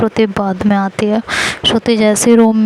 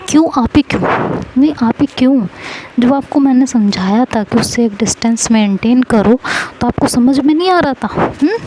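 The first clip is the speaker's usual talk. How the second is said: scolding; 3 semitones higher than usual. Acted. Wife scolding husband.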